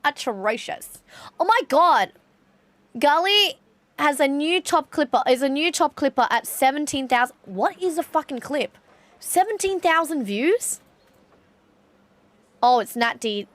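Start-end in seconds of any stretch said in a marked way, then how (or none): 1.4-10.8 high, loud astonished outburst; shocked disbelief. Real, not acted. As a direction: gasp it out in disbelief. Reacting to clip view count.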